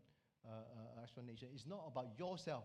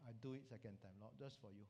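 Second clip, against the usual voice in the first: lower, softer giving in; resigned submission; 3 semitones lower, 5 dB quieter than usual. Acted. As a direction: yield reluctantly, voice dropping. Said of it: "he just submits".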